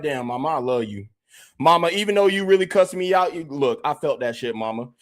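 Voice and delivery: mellow making-up with mama; tender son. Retold or imitated. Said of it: "be like".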